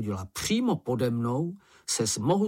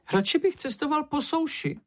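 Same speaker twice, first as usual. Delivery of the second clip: much higher, fretful little creature voice; Sniff's nervous grumble. Acted. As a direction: wish yourself off the river. Sniff frightened on river.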